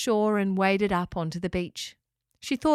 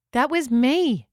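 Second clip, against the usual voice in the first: raised voice to cut through the squabbling; said loudly; 4 semitones higher, 5 dB louder, slower than usual. Acted. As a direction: speak up firmly over the noise. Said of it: "said Locker loudly".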